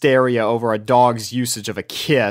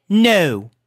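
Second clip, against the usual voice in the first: flat no; 7 semitones higher, 3 dB louder than usual. A narrator's reading. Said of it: "Rarity flatly responded".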